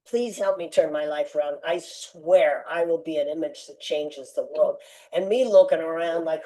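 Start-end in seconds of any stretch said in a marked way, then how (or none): 0.1-4.8 earnest prayer. Retold or imitated. Repeating his prayer to God.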